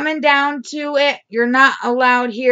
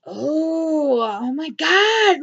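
tearful oh my God; 4 semitones higher, much slower than usual. Real, not acted. Upset vlogger to viewers about theft, crying. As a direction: voice breaking into a cry.

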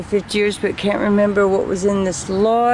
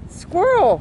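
excited shout; 9 semitones higher than usual. Real, not acted. Squirrel charges at companion.

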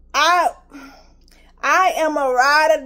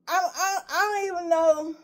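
tearful; 3 semitones higher, 4 dB quieter than usual. Real, not acted. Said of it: "ooh, it makes me emotional".

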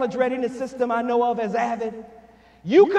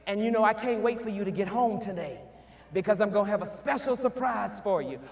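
soft loving promise; 4 semitones lower, 5 dB quieter than usual. Retold or imitated. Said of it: "finished up with".

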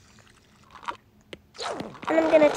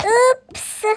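cheeky oops; 9 semitones higher, 4 dB louder than usual. Pretend. Child teasing after eating it.

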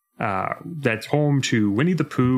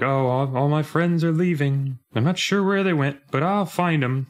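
a higher, lightly voiced, lost Winnie the Pooh; imitating Pooh; 6 semitones higher than usual. Voicing Pooh searching for his friends, higher and lightly lost. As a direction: lift the pitch and sound gently lost. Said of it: "the idea of, like".

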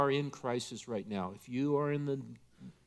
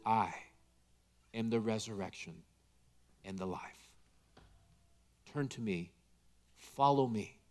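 much softer and lower, gentle; tender hush; 5 semitones lower, 6 dB quieter than usual. Acted. Jesus gently comforting the grieving, soft tender hush. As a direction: lean in close like a hand on the shoulder. Taps us on the shoulder.

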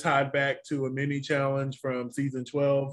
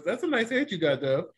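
a light hint of an old rocker's mumble; a rock singer's voice. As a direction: toss it off as a lightly voiced rock star. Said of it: "in the singer's voice".

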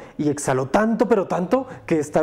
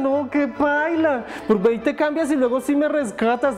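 disgusted prince; 8 semitones higher than usual. Acted.

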